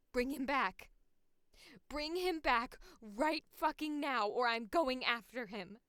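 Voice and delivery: loud, punchy ultimatum; forceful, punchy threat; aggressive demand. Acted. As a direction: demand it forcefully, driving forward. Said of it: "aggression in there".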